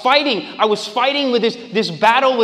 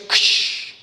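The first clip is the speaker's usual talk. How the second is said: shatter sound. Shown as a demonstration. Preacher voicing the pottery shattering in the cave. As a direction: imitate pottery breaking. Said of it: "he hears".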